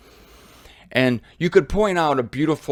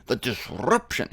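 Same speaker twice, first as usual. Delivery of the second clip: put-on German accent. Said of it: "He said".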